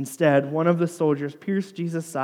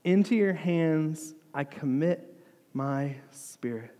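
louder, restrained retold cry; calling out; slower than usual. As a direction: call to a father with moderate force. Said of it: "called out with a loud voice".

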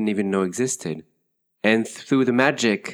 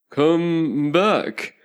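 higher calling-out caterpillar; calling after; 8 semitones higher, 4 dB louder than usual. A narrator's reading. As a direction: call after someone leaving. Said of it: "the caterpillar called after her".

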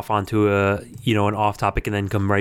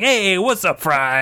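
casual Bender impression; 9 semitones higher, slower than usual. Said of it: "John DiMaggio goes in".

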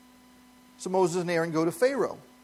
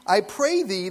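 humble request; 3 dB louder, slower than usual. Shown as a demonstration. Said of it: "roughly it means".

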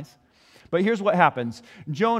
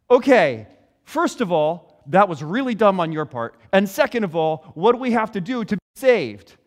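exasperated sailors; 3 semitones higher, 6 dB louder than usual. Retold or imitated. Sailors scold Jonah in panic.

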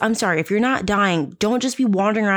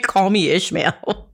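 put-on slow, grand old sea captain voice; slower than usual. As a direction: boom it out like a whaling captain. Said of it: "he sounds like a fucking sea captain".

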